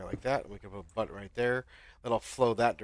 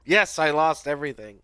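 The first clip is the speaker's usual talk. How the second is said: loud, raised replay of exasperation; mock frustrated yell; 6 semitones higher, 10 dB louder than usual. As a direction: yell it back in mock despair. Replays own frustrated answer to viewer.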